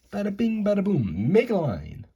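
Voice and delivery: loud, high slogan shout-out; hyped-up catchphrase. Pretend. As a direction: punch it out like a jokey T-shirt slogan. Replaying catchphrase for merchandise joke.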